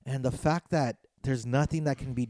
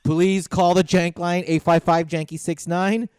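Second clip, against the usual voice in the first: louder, projected call-out to listeners; public appeal; 2 semitones higher, 7 dB louder than usual. Real, not acted. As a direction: address the whole audience, urging them to call in.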